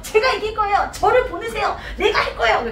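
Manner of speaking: lightly acted boy nagging to be sent; cheeky pestering. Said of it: "막 앞에서 막 깐죽깐죽 거려". (깐죽대는 꼬마 말투)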